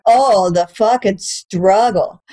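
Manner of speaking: drawn-out mock pity; sarcastic. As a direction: roll your eyes at the struggle. Mocking her German classes.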